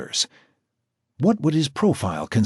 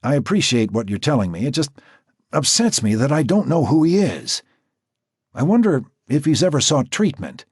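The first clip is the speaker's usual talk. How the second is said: higher, measured professional woman's voice; Natasha the doctor; 6 semitones higher than usual. A narrator's reading. Natasha explaining the profile to Jack, higher and measured. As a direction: speak as the composed doctor.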